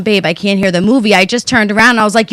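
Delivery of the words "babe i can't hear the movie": calm, gentle request to husband; polite ask. Retold or imitated. Wife asking husband kindly about the movie. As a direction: ask nicely, no edge. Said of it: "instead of me looking and going".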